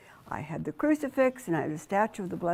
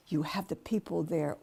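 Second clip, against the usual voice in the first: hushed; 2 semitones lower, 6 dB quieter than usual. Real, not acted. Confiding about the stage.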